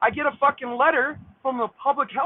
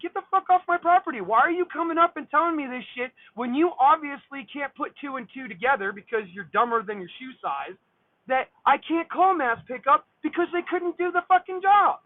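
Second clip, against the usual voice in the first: heated retold tirade, pitched up; angry telling-off; 4 semitones higher than usual. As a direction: lay into the intruder without stopping. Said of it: "I'm telling her this stuff".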